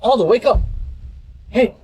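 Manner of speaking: frantic, high-pitched worry; panicked. Real, not acted. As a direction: shake him awake, scared. Waking a fallen friend.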